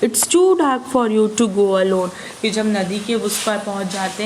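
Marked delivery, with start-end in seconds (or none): 0.0-2.1 mildly gentle, slow offer. Acted. Ofrio gently offering to walk the boy through the dark. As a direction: kindly offer to walk him home. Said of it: "Ofrio said the child gently".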